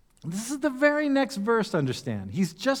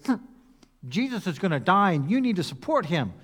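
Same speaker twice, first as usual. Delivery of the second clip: lightly voiced disciples. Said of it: "Were they".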